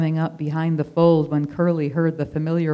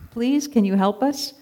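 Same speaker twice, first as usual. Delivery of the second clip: begging; 6 semitones higher than usual. Acted. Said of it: "he begged".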